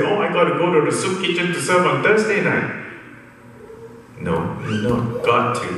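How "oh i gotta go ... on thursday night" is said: higher-pitched put-upon complaint; mock grumbling. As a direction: imitate someone moaning about a chore. Mimics reluctant church volunteer.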